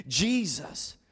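slow, heartfelt appeal for mercy; earnest cry, eased back from a shout; personal plea. Retold or imitated. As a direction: plead personally, drawing out the last words. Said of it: "Do you see how personal it is?".

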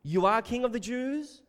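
"You are King of the Jews?" said flat like a statement, then rising at the end; a statement with a questioning lift on "Jews"; statement asked as a question. Shown as a demonstration. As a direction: read it as a claim that turns into a question. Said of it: "a statement asked as a question".

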